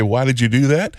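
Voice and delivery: lightly voiced teacher's question; mild retold questioning. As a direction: ask it as a puzzled teacher, rising at the end. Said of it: "The teacher looked at me and said".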